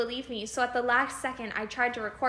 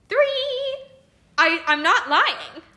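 laughing; 7 semitones higher, 8 dB louder, much slower than usual. Real, not acted. Laughing disbelief after clip.

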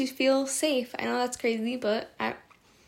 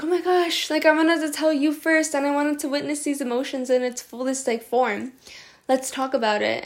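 gushing excitement; 3 semitones higher, 3 dB louder than usual. Retold or imitated. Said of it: "I'm really excited, then I'm like".

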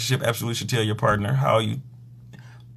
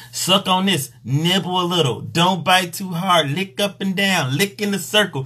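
bossy instructions; 4 semitones higher than usual. Retold or imitated.

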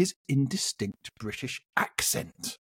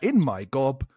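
slow, spaced-out dictation; slow repeat; 2 semitones lower, slower than usual. Shown as a demonstration. Host repeating the words for the contestant, slow dictation. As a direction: give the phrase slowly, piece by piece. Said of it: "can you repeat those atrocious words".

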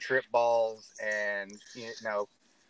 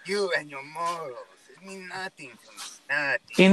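unearthly voice; 3 semitones higher, 4 dB louder than usual. Pretend. Joins the villain bit.

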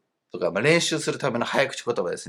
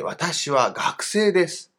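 slow model sentence; 4 semitones higher, much slower than usual. Shown as a demonstration. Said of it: "例えば、よくある例として".

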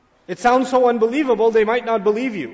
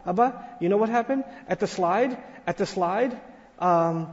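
breathless, repeating himself; a small boy rushing up, stumbling over the words; excited little son. Retold or imitated. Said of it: "He says".

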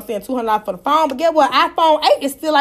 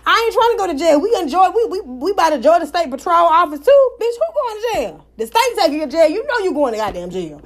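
retold scolding; 4 semitones higher than usual. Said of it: "I said".

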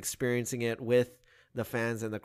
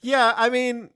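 much higher, playful voice; high mock voice; 11 semitones higher, 3 dB louder than usual. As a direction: jump way up in pitch.

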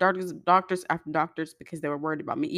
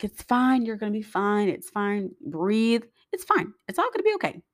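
higher, soothing imitation of the nurse; calm her down in a bright, higher voice; reassuring nurse; 4 semitones higher than usual. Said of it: "And the nurse was like".

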